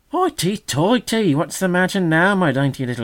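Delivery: mock his ruffled pride; mocking magpie. A narrator's reading.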